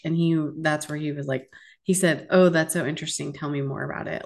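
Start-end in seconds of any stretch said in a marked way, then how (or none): 2.3-4.2 deadpan mock interest, tossed off; sarcastic. Bartender feigning interest in her Irish roots, sarcastic. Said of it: "in a really sarcastic way".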